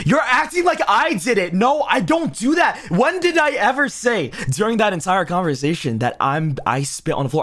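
high, loud outraged denial; high-pitched protest. Real, not acted. Defensive outburst at accusation.

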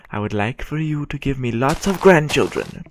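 put-on sweet old granny asking for grandchildren; playful old lady impression. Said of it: "I sound like an old lady".

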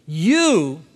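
YOU stretched long and loud; emphatic. Acted. Preacher quoting John to the believers, emphatic. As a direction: lean hard and long on YOU. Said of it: "that's how he's saying it".

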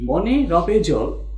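very slow, each word spaced out for writing, with মনে leaned on; slow dictation. Shown as a demonstration. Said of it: "এই বাক্যটার মধ্যে যতগুলো বর্ণ".

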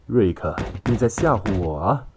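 a touch of harsh challenge; stern. A narrator's reading. Angry passenger challenges Rick while kicking the seat, stern. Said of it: "厉声说道".

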